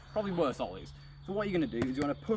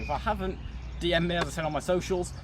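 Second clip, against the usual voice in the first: out of breath; 3 semitones higher than usual. Real, not acted. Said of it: "I'm out of breath".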